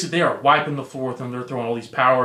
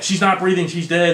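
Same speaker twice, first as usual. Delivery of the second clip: higher-pitched mock panic; retold freak-out; 4 semitones higher, 4 dB louder than usual. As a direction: imitate people starting to freak out. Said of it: "they start freaking out".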